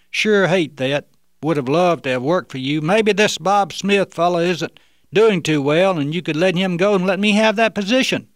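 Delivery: lightly put-on phone voice; disguised voice. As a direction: keep the stranger's voice going. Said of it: "he continued to use the fake voice".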